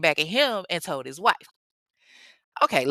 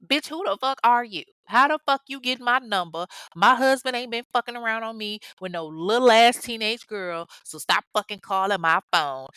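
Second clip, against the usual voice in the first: imitated irate wife, pitch raised at first; angry wife; 3 semitones higher than usual. Wife cursing out the side girl on the phone, angry. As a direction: tell off the caller, acting mad. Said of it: "It was probably more like".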